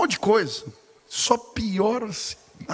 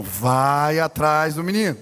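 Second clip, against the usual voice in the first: lower, slow, insistent command; voice of the Holy Spirit; 3 semitones lower, 3 dB louder, slower than usual. Retold or imitated. Holy Spirit insisting again to the protesting pastor, low and slow. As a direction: repeat the order weightily. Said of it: "Falei, "Deus, tô fazendo sermão".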